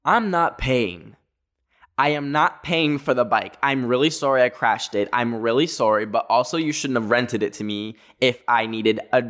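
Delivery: firm refusal. Retold or imitated. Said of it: "and I told this girl".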